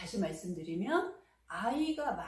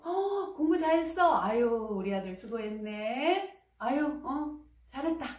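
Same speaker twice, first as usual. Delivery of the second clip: high, louder beaming praise; joyful praise; 4 semitones higher, 5 dB louder than usual. Shown as a demonstration. Mother praising her son for finishing study, beaming and louder. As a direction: praise him with open delight. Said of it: "이렇게 칭찬해 주셔야 해요".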